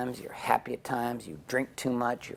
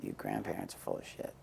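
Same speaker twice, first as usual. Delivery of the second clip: hushed aside; 14 dB quieter, faster than usual. Retold or imitated. Mom elbows him, aside.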